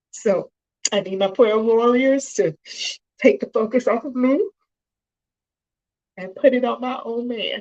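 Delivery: choked-up voice catching with emotion. Addressing prayer warriors about a loved one, choking up. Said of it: "I'm sorry I'm choking up".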